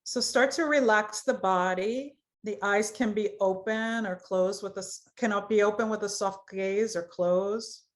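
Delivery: unhurried, even guiding voice; guided meditation. Acted. Yoga teacher opens a chakra exercise, guided meditation voice. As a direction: lead them gently into relaxation. Leads a guided body relaxation.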